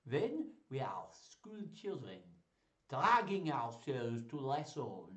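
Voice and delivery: slow, hammed-up French accent. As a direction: recite grandly in a shaky attempt at French accent. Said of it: "shall I try a French accent?".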